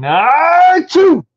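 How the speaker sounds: high, loud hammed-up sneeze; mock sneeze. Reading aloud, allergic human finally sneezes, loud and high. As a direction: let a big fake sneeze rip.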